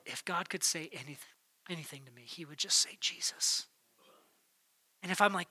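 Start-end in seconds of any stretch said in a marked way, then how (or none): 0.1-3.7 hushed whisper. Pretend. Congregant leaving church, whispering the takeaway. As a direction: whisper it, almost no voice.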